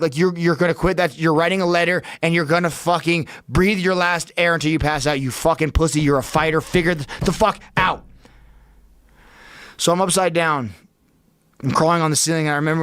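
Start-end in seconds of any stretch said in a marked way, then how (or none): 0.2-8.0 mildly heated self-scolding, pitched up; retelling a stern talk to himself; berating himself. Retold or imitated. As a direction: push yourself like a fighter who refuses to quit. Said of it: "while fucking in complete panic".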